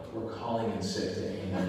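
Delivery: low, chuckling gleeful whisper of a plan; mischievous laugh; laughing conspiracy. Retold or imitated. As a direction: say it through a guilty laugh.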